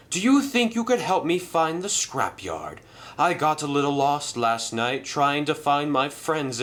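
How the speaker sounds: a friendly lost engine asking for directions; cheerful engine voice. Acted.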